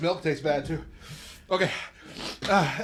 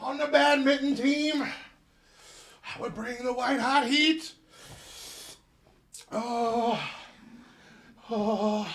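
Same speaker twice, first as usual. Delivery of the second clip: laughing; 5 semitones higher, slower than usual. Real, not acted. Joking about high school nickname.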